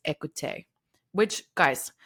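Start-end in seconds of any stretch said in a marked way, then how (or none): 0.1-0.7 French word. Shown as a demonstration. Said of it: "I'm not pretending to be French".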